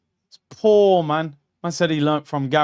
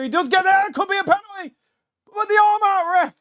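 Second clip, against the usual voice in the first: excited; 13 semitones higher, faster than usual. Real, not acted. Live reaction to a penalty shout.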